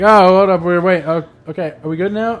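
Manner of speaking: flustered player. Retold or imitated. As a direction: imitate a player stalling the pull. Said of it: "it's all like".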